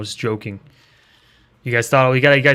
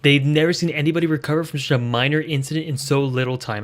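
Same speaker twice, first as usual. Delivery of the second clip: imitating the mayor; 2 semitones higher than usual. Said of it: "he speaks like this".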